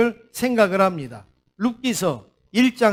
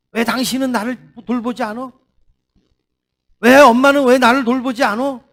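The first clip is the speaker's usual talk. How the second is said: mild mock complaint, building louder and higher; acted reproach; 3 semitones higher, 4 dB louder than usual. Pastor voicing family members blaming each other, in mild reproach. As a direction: complain like a neglected relative, rising at the end. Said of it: "이러면서 서로 원망하지 않습니까?".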